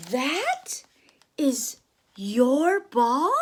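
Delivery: slow, hushed whispered question; awed whisper. Acted. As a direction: breathe it in wonder. Character amazed at the ball.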